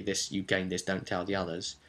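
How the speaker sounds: secretive hush. Retold or imitated. GM secretly handing one player a reward, hushed. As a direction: slip it to them quietly so no one hears.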